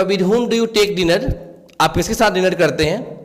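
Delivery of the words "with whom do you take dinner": very slow, word by word, slightly raised pitch; slow example reading. Shown as a demonstration. Teacher giving students an English example sentence, slow and clear. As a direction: read it out like a dictation. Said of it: "teacher reads English example".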